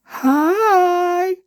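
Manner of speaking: high, breathy put-on hello; flirty hi. Reviewer greeting listeners who love his voice, high and coy. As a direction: squeak a coy hello to the fans.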